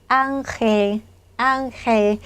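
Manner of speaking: 앙헬 with the second syllable starting on h; h sound for g. Shown as a demonstration. Teacher showing g before e, careful h in 앙헬. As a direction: say 앙헬 the Spanish way, an h before 엘. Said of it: "흐 발음을 해주시면 됩니다".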